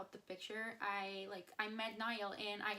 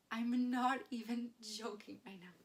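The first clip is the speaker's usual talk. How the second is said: excited, louder and a little choked up; gushing over the memory to the camera, louder; emotional; 6 dB louder than usual. Real, not acted. Fan tells viewers about the hug, excited and louder. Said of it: "makes me so emotional".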